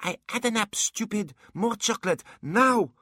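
put-on very high child voice, building to a shout; bratty demand. Boy punching the dwarf for chocolate, loud and bratty. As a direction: demand it like a spoilt small boy.

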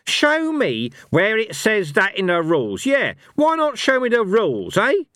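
jab each word like a finger in the chest; raging old barbarian challenging Fate. Acted. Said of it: "dancing with rage".

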